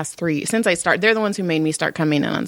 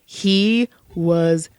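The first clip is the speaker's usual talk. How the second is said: whisper; 2 semitones lower, much slower than usual. Real, not acted. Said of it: "hushed aside".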